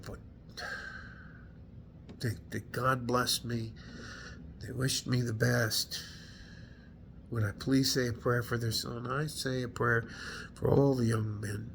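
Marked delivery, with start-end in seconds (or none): 2.2-11.7 softer, choked-up recollection; quietly holding back tears; emotional. Real, not acted. Veteran recalling a family's blessing, quietly moved. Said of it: "I don't usually get this emotional".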